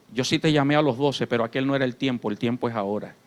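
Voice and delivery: low, soft voice of God answering gently; a hint of a tender, fatherly God; God's loving reply. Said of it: "Dios en su amor me dijo". (Dios hablando con ternura, grave y suave)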